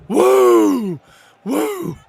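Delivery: high joyful whoop; loud whoops. Real, not acted. Streamer whooping at the goal for viewers, loud high whoop. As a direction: whoop like the crowd just scored.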